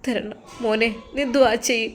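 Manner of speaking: a mother near tears, pleading softly with her husband's student; tearful plea. Acted. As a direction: speak through held-back tears, quietly. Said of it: "ആ ഉമ്മയുടെ ആ ഒരു കണ്ണുനീർ".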